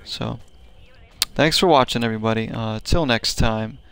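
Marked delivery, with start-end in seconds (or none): none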